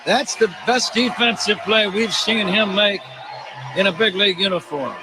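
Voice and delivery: laughing through the words, delighted. Real, not acted. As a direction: chuckle while praising it.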